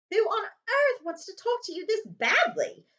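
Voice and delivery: put-on high, loud, slow amazed boy; spoiled cousin baffled by Harry's letters; amazed Dudley. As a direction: gasp it out in disbelief. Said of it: "Dudley asked Harry in amazement".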